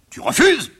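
high-pitched incredulous question; exclaim, scandalised at defiance; outraged disbelief. Acted. Father hears refusal.

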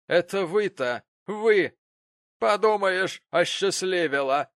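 loud, high jeering; mock her self-importance. Betsey Prig jeering at Mrs Gamp, loud mocking taunt. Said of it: "от насмешки".

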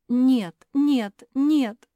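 loud, high tearful wail; wailing through tears. Acted. Hortense learning the truth, loud tearful wail. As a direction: cry out the denial. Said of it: "повторяла она сквозь слёзы".

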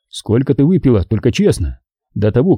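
ordinary delivery, nothing marked

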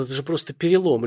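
a touch of frightened babble; mildly scared, pleading; trembling plea. Acted. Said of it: "пролепетал пострадавший дрожащим голосом".

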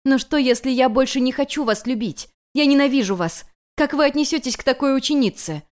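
student blurting hatred at her master; hateful outburst. Acted. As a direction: spit out the hatred. Heiress declares hatred to master.

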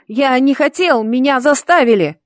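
beg, about to cry; close to tears. A narrator's reading. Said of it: "он почти плакал".

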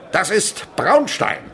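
slow, high and loud; weighty announcement. Acted. Chemist presenting the black powder to pupils, slow and grand. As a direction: lay out each word with ceremony. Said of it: "sagt der Chemiker".

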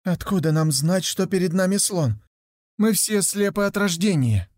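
выше, жалобно оправдываясь; растерянно объясни, что ничего не видишь; слепой нищий. Acted. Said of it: "и один из них сказал". (слепой отвечает погонщику, оправдываясь)

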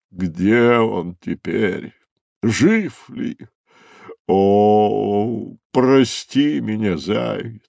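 a touch of a moan, slow and pleading; mournful cry to the lost hare. Acted. Rhino moaning over the lost hare and turtle, mild lament. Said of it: "стонал носорог".

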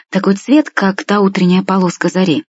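ordinary delivery

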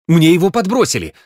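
panicked gabble; rattled off in panic. A narrator's reading. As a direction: babble it out frightened. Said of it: "затараторил Генка".

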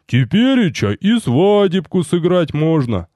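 folksy joking soldier. Acted. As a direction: tease the master playfully. Рикар шутит про свадьбу.

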